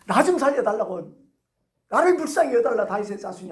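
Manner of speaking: acted loud plea, tapering at the end; defiant shouting. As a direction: cry out stubbornly for mercy. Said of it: "오기로 더 크게 소리치는 거예요".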